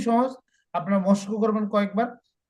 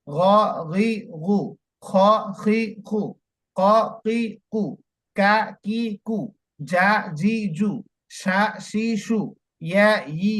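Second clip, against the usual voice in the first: vowel sounds only. Shown as a demonstration. Teacher demonstrating vowel sounds to students. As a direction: drill just the vowel sounds, steady and clear. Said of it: "যেমন আমি আপনাদেরকে দেখাচ্ছি".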